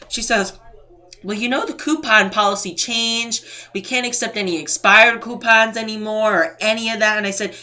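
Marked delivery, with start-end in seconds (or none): 1.2-7.2 higher-pitched mock supervisor; mocking imitation. Supervisor explaining coupon policy to a customer, mockingly imitated. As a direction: recite the policy in a put-on voice.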